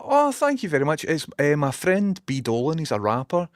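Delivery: imitating himself thanking a fan of the hat; retold delighted thanks. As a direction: gush your thanks to a stranger. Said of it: "And I was like".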